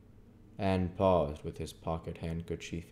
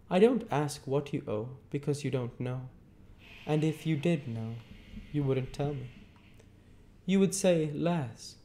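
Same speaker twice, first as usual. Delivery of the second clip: stern lawyer Jaggers; 9 semitones higher than usual. A narrator's reading. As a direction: hold the witness with a hard stare. Jaggers lecturing Pip.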